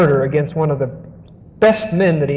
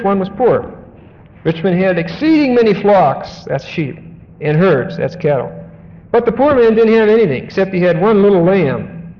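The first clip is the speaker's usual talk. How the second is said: raised, lively storytelling read; dramatic scripture reading; 3 semitones higher than usual. Acted. Preacher reading Nathan's parable to the congregation, dramatic read.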